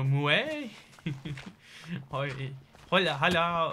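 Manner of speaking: very slow, mooing cow voice speaking Spanish. Acting out how a cow would speak Spanish: cow speaking Spanish. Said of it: "how, I don't know, a, a cow would speak Spanish?".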